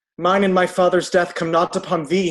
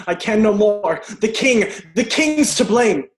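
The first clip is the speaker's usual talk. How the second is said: dying accusation; 4 semitones higher, 6 dB louder than usual. Acted. Dying Laertes accusing the king.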